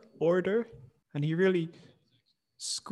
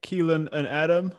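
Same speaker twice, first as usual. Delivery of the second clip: loud, slow, drawn-out show greeting; slow host's welcome; podcast intro; 2 semitones higher, 5 dB louder than usual. Real, not acted. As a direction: announce the show with deliberate emphasis. Recording attempts at show intro.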